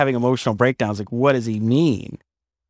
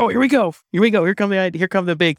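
sarcastic; 7 semitones higher, faster than usual. Retold or imitated. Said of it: "I said".

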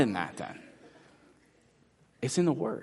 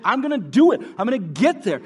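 much higher, louder effortful cry; straining paddler; 8 semitones higher, 6 dB louder than usual. Retold or imitated. Preacher acts frantic paddling, straining cry. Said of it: "and we're, pa".

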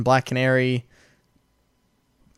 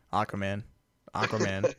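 Batman voice; 8 semitones lower, 8 dB quieter than usual. Retold or imitated. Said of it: "Batman just keeps going".

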